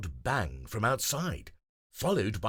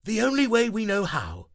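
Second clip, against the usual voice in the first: higher, louder firm answer; determined Grover; 12 semitones higher, 7 dB louder than usual. Acted. Grover telling friends the plan, determined. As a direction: answer with resolve.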